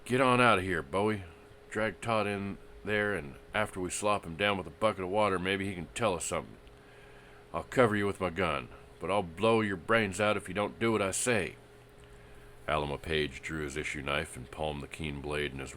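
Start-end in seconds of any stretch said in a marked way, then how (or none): 0.0-11.5 high, loud, tense orders; high-pitched voice. Acted. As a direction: order him in a strained high voice. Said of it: "a curious high-pitched voice".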